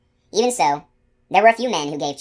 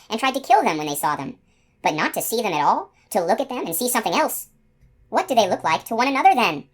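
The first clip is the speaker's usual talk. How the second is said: higher, rising wondering questions; bewildered unicorn; 5 semitones higher than usual. Acted. Unicorn alone on the road, rising bewildered wonder. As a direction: puzzle it through, growing incredulous.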